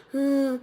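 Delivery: mock whimper through closed lips; imitated whine. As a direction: imitate a hurting child's whine. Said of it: "she's whining".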